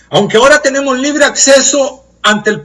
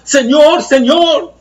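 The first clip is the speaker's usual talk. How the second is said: "Señor, Señor" cried higher in mild mock anguish; anguished cry; 5 semitones higher, much slower than usual. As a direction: plead "Señor" twice like the lost at judgment. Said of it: "es un grito de dolor, de exclamación, de angustia". (clamor angustiado, a medio actuar)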